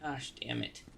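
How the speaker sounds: breathy whispered swear; whispered curse. Real, not acted. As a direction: hiss the curse under breath. Whispered curse after mistake.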